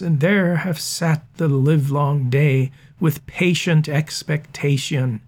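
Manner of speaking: a tribune scolding the fickle crowd, stress where the sense falls; scanned for performance, not for the meter; reading for sense. Shown as a demonstration. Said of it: "Let's speak the passage with that information in mind".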